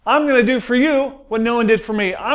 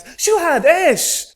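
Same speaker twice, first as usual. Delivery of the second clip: mock Arab taxi driver; 8 semitones higher, much slower than usual. Taxi driver voiced in story.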